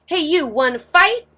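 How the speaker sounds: high, loud picking a fight; grouchy ladybug challenge. A narrator's reading. Grouchy ladybug calling out to the whale, high and loud. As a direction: taunt the whale like a tiny bully. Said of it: "the grouchy ladybug said".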